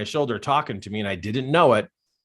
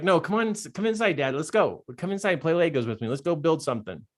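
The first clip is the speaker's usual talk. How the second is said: put-on higher, eager child urging Dad along; little boy; 6 semitones higher than usual. Little boy coaxes dad to build Legos, insistent. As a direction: imitate a small son who keeps coaxing. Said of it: "And he's like".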